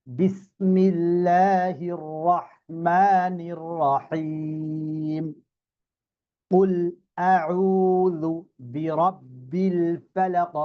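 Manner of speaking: slow, drawn-out chanted Quran recitation; long held vowels in tajweed chant; melodic recitation. Shown as a demonstration. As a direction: recite the surah beautifully in one flow. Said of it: "এখন একসাথে সুন্দর করে বলবো".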